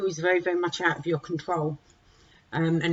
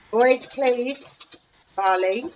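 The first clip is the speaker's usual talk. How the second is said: calling out; 6 semitones higher, 5 dB louder, much slower than usual. Real, not acted. Calling toddlers to order.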